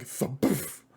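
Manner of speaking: spoken thump with a puff; imitated thump. Narrator imitating someone getting thumped, spoken sound effect. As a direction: imitate a hollow wooden whack. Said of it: "you hear this".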